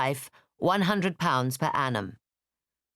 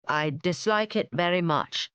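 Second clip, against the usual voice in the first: weary reluctance; 3 semitones higher than usual. Acted. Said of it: "he replied".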